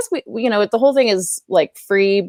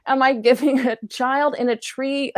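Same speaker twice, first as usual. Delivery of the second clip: laughing disbelief; 6 semitones higher than usual. Retold or imitated. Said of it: "I'm like".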